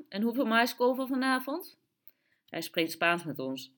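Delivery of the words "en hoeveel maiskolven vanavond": higher-pitched, lilting vendor's voice; Peruvian shopkeeper. A narrator's reading. The Peruvian takes a regular family's order, high lilting voice. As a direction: take the order in a raised, chirpy voice. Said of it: "zei de Peruaan".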